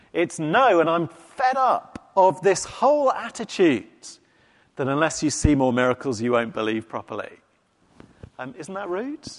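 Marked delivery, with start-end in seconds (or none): 0.4-7.4 lightly voiced irritated rebuke; fed-up retort. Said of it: "it's not just".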